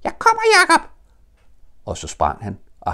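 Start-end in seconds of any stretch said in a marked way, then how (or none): 0.0-0.9 very high, loud squeaky little voice; squeak. Acted. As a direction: squeak it out like a tiny joey. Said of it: "Og han pep".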